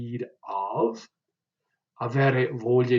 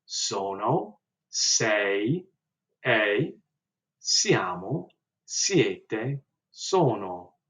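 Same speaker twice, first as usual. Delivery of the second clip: conjugation drill; much slower than usual. Shown as a demonstration. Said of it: "as I go through the conjugations".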